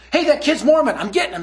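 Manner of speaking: put-on overexcited kid, high and loud at first; Josh. Kid spotting his next convert, wildly eager. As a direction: imitate a kid charging off on impulse. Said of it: "he's freaking out".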